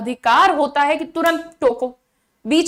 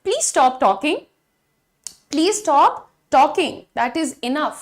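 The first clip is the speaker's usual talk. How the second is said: firm tone; much slower than usual. Shown as a demonstration. Teacher firmly telling chatty class to stop. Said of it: "tone की जरूरत है यहाँ पर".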